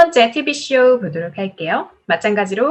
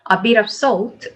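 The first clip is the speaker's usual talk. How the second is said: A bit of salt, lifted on salt; rising list intonation; much slower than usual. Shown as a demonstration. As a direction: raise salt as a list item. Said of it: "올라가고요". (salt 끝 억양을 올려서)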